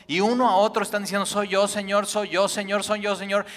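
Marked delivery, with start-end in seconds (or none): 1.2-3.4 louder, urgent repeated question; loud overlapping cries. Acted. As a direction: voice the whole crowd asking at once. Disciples all asking at once.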